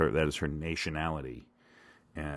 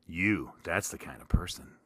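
whisper; 5 dB quieter than usual. Acted. Confiding to the listener.

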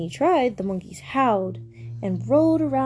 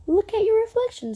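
higher-pitched picture-book quote; story reading; 10 semitones higher than usual. A narrator's reading. Parent reading Meerkat's encouragement to a small child, story reading. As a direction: read Meerkat's line to a toddler.

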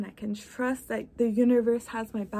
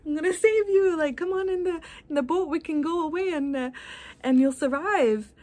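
much higher, eager rescuer voice; rowboat rescuer; 6 semitones higher than usual. Retold or imitated. Rowboat guy urging the stranded man aboard, high and eager. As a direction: call him into the boat, high and keen. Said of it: "the guy in the rowboat says".

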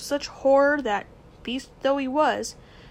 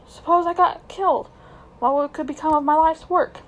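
put-on haughty old scholar, louder, indignant; pompous magician uncle; 3 semitones higher, 5 dB louder than usual. Uncle scolding his nephew, louder and haughty.

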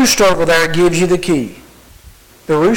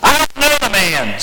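mildly indignant, higher-pitched denial; pitched-up protest without shouting; angry; 5 semitones higher than usual. Acted. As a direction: disown him with a touch of anger. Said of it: "Sounds like he's angry".

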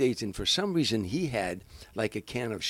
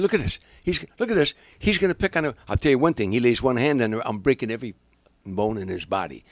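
mock outraged tough guy; 3 dB louder than usual. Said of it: "Now the guy said".

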